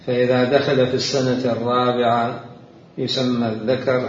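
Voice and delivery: slow, deliberate classical Arabic reading; formal reading aloud. Real, not acted. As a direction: read each definition out with weight. Reads a book definition. (قراءة متأنية لنص بالفصحى)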